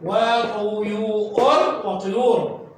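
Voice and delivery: وطيور drawn out syllable by syllable, very slow; slow sounding out. Shown as a demonstration. A teacher sounds out the word for children, very slow. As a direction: stretch each part of وطيور. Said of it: "صار يو".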